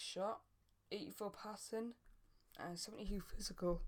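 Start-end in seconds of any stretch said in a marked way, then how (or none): 2.6-3.8 words stretched by a yawn. Real, not acted. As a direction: yawn through the line. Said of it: "Oh, sorry, I yawned a bit".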